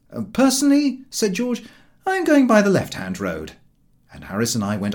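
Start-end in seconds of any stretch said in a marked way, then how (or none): 0.1-3.5 raised, higher, louder voice; George's voice. Acted. George tells his friends he is going left, loud and firm. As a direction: declare it firmly to the others.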